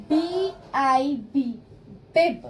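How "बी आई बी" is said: slow spelling. Shown as a demonstration. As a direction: spell B I N slowly, letter by letter. (अक्षर-अक्षर धीरे बोलना)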